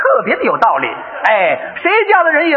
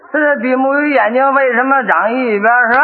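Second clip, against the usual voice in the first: mildly hesitant, in the usual pitch; stalling. Acted. Father stalling over son's fish question, mildly hesitant. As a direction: repeat the question to buy time.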